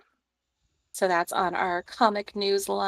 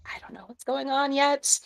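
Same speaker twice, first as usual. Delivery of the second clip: whispered, higher admission; whispering; 7 semitones higher, 3 dB quieter than usual. Real, not acted. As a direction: whisper it like a guilty secret. Whispered confession.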